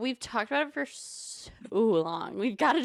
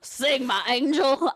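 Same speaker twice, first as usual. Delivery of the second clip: slow, louder sung phrase; Phantom voice; 3 semitones higher, 3 dB louder, slower than usual. Pretend. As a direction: sing it like the Phantom. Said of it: "That was Jasper as the Phantom".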